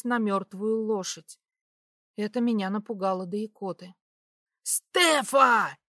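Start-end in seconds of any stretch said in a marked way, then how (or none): 4.6-5.8 loud panicked shout of a name; terrified yell. A narrator's reading. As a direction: yell her name in horror. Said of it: "орал Дар ... с явным ужасом в голосе".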